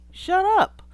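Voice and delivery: loud, high scoffing shut up. Real, not acted. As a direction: snap it out in disbelief. Scoffing retort.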